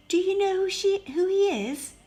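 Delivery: bursting to know; eager question. Acted. Beauty asking the Beast about the prince, eager and high.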